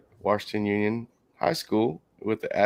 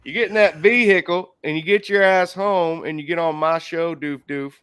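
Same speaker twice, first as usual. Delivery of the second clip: put-on Southern accent; 5 semitones higher, 4 dB louder than usual. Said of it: "someone with a Southern accent says vehicle".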